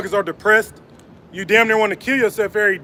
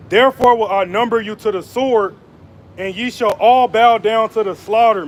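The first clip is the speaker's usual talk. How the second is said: measured preaching cadence, weighty and deliberate; scripture reading. Acted. Preacher reading Isaiah to his viewers, solemn proclaiming. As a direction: proclaim the verses like a street preacher.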